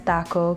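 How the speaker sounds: taco said the Spanish way; Spanish pronunciation. Real, not acted. Cook defending the first language, taco said the Spanish way. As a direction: say taco with Spanish vowels and unaspirated t. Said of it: "that's how I say it".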